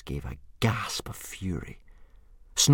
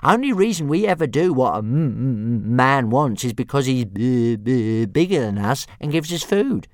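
high, stuttering small dragon voice; a chirpy baby dragon explaining; helpful little dragon; 4 semitones higher, 7 dB louder than usual. A narrator's reading. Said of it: "said Toothless helpfully".

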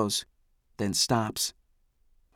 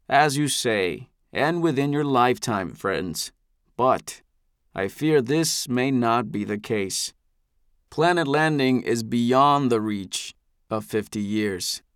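slow, smooth patronizing calm; a patriarch soothing a troublemaker; gracious elder; slower than usual. Acted. Eldest replies graciously.

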